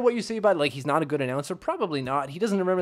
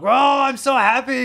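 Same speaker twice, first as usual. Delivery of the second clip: mock happy kid; 10 semitones higher, 7 dB louder than usual. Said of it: "I'm like".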